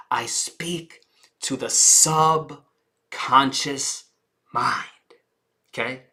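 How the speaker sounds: soft confiding aside; hushed aside. Shown as a demonstration. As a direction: lean in and confide. Quiet aside on subconscious.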